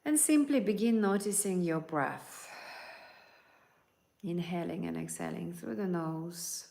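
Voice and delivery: calm guiding voice, unhurried; guided meditation. Acted. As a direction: lead them gently into relaxation.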